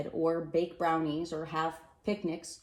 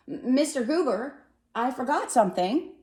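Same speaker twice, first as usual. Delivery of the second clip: louder and higher call down the sidewalk; 8 semitones higher, 6 dB louder than usual. Acted. Mister Hatch calling from his porch to the postman, louder. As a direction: shout after someone walking away. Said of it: "Mister Hatch called from his porch".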